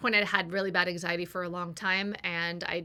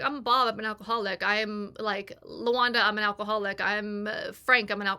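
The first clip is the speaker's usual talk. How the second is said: imitating group members; 4 dB louder than usual. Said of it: "everyone would be like".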